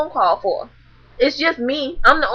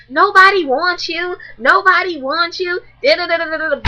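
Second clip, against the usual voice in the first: much higher, whiny mock taunt; mocking girl's taunt; 6 semitones higher than usual. Imitating the girl taunting her, high and whiny. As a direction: squeak it like a petty girl. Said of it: "She's like".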